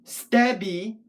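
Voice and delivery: stabby with STAB drawn out and strong; stress on the first syllable. Shown as a demonstration. Puppet poet showing word accents, stabby stressed on STAB. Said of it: "say the word stabby".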